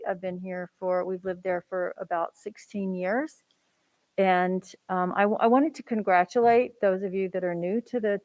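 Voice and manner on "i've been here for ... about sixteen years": through a face mask. Real, not acted. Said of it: "can you hear me with the mask on?".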